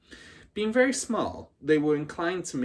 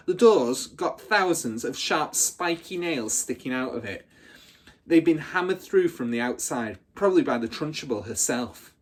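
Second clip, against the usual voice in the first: louder, higher, relishing the horror; gleeful bully; 4 semitones higher, 6 dB louder than usual. Acted. Hortensia scaring the little girls, louder and higher. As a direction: savour every word of the threat.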